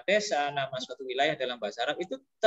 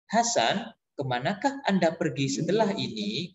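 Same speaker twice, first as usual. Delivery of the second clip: overly formal phone-operator diction; stiff telephone operator. Shown as a demonstration. Teacher mocks bookish speech to a friend, operator-formal. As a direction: recite it formally like an automated operator. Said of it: "operator telepon aja kan?".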